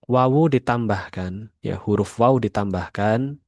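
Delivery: usual speaking voice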